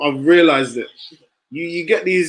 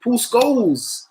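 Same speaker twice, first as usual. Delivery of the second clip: mock disbelief; 9 semitones higher, slower than usual. Mock disbelief at Scholes' modesty.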